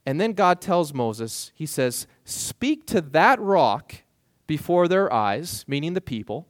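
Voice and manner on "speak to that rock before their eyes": slow, deliberate divine instruction; slow command. Acted. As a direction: stretch each word of the order. Voicing God's command to Moses.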